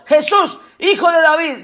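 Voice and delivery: mild imitated call; retold cry. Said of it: "Bartimeo gritó".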